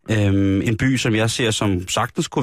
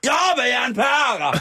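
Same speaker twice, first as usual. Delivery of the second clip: very high mock yell; imitated shouting; 13 semitones higher, much slower than usual. Host re-enacting man shouting at police, high mock yell. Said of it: "reagerede han ved at råbe".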